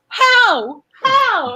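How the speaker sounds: high baffled Australian "How?"; mock Aussie accent. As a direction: ask in disbelief, a light Aussie accent. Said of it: "She's like".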